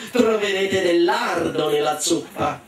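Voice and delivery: promessa allettante, detta lentamente; con un sorriso. Acted. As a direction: madre che lusinga i figli, sorridendo appena. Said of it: "concluse la madre con un sorriso". (promessa lenta e sorridente)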